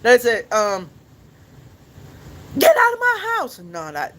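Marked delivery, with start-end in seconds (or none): 2.6-3.6 very high cartoon voice attempt; Squidward. Streamer trying a cartoon impression, way too high. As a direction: pitch the cartoon line far too high. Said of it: "that's way too high".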